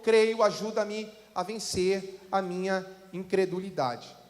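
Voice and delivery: solemn reading from the Bible; scripture reading. Acted. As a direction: read the passage steadily to the church. Reads scripture passage.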